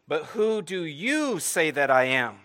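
slow, weighty question as Jesus; voicing Jesus. Preacher voicing Jesus, slow and searching. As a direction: lean into it as Jesus asking his own disciples.

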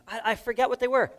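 high, puzzled voice; confused listener. Retold or imitated. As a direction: play the forgetful churchgoer.

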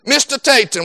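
imitated thick Jamaican accent. Soccer coach calling to a player at practice, imitated Jamaican accent. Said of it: "he had that thick Jamaican accent".

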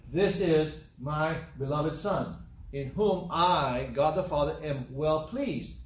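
slow, weighty proclamation as God; measured divine announcement in a preacher's full voice; booming voice from heaven. Retold or imitated. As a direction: declare it firmly, word by word. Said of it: "it was a booming voice".

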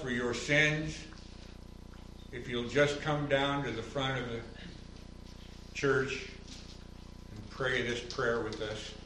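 a hint of a pleading evangelist's invitation; minister's altar call. Pastor imitating the minister's altar call, mildly pleading. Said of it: "he finished his message in the form of an offer".

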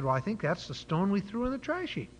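lightly acted, hesitant confession; sheepish admission. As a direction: own up with a touch of embarrassment. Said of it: "the man kind of sheepishly said".

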